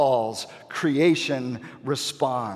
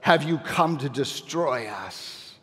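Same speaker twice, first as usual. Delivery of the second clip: hissing demon. Retold or imitated. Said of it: "He hisses, the demon does".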